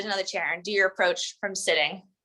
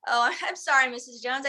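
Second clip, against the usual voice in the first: light laugh; 3 semitones higher than usual. Shown as a demonstration. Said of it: "smile, laugh, step back".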